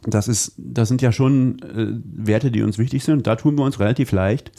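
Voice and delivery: talking around a candy; words round a sweet in the mouth; mouth full. Real, not acted. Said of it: "Du sprichst so lustig mit dem Bonbon im Mund".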